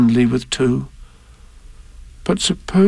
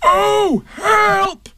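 high, drawn-out cry for help; Pooh inside jar. A narrator's reading. Bear stuck in a honey jar, high wailing plea. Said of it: "he said inside the jar".

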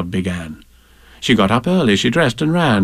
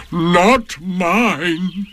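higher, proud little boast; lifted chin, a touch smug; proudly; 7 semitones higher than usual. A narrator's reading. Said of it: "said Eeyore proudly".

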